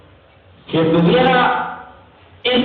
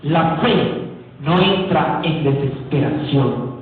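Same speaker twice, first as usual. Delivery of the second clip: slow, measured and lowered, with weighty pauses; hushed calm; 4 semitones lower, 3 dB quieter, slower than usual. Real, not acted. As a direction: spell out calm faith slowly and softly. Serenidad de la fe recalcada. (calmado y pausado)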